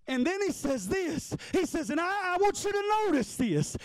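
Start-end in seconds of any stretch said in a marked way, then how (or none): 1.9-3.8 voicing God, shouting.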